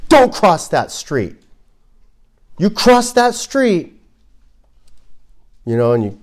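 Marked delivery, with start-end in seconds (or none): 0.1-4.0 stern, slow warning pitched up at the end; drawn-out, threatening demonstration yell; yelled command. Shown as a demonstration. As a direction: bark it out slowly as an order. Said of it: "I can yell at you".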